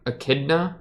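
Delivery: put-on "Echidna" as uh-KID-nuh, rising; unsure pronunciation. Shown as a demonstration. Reactor trying out the name, "Echidna" as a doubtful uh-KID-nuh. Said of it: "if you're here for, like, good Japanese pronunciation".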